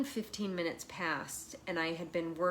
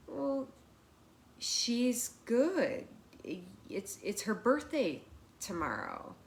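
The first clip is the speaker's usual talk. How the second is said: hesitant; 3 semitones higher, slower than usual. Retold or imitated. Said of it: "in a hesitant sort of voice".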